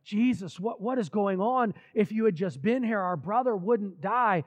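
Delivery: mock hysterics. Mary and Martha confront Jesus over their brother, mildly hysterical. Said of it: "are all just in hysterics".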